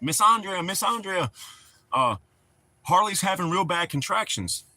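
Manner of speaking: urgent retold call. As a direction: mimic him calling her over with urgent news.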